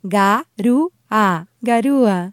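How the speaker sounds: "Garúa" slow, each syllable apart. Shown as a demonstration. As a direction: say "Garúa" ga-rú-a, slowly. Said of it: "break down these words syllable by syllable".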